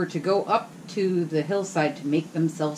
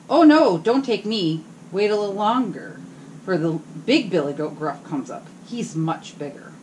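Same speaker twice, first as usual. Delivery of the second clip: pleading goat; 2 semitones higher, 4 dB louder than usual. Acted. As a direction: beg the troll to wait. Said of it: "said the billy goat".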